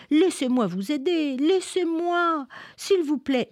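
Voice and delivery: put-on high, childlike begging to help; a small girl pleading with her father; pleading little girl. Minli begging her father to let her help, high and pleading.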